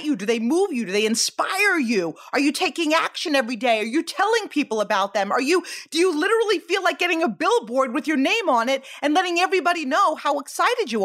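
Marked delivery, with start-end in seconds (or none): none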